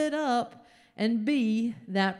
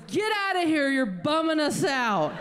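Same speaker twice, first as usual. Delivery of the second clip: higher, louder mock irritated order; Jax ordering her out; 4 semitones higher, 4 dB louder than usual. Jax telling the comedian to leave the room, irritated. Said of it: "And Jax goes".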